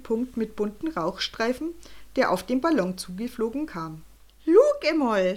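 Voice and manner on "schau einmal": higher, louder Swiss German to himself; Swiss German balloonist. A narrator's reading. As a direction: excitedly tell yourself to look, in Swiss German. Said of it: "sägstele".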